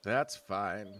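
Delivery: put-on a kindly old geezer at the pump; elderly man voice.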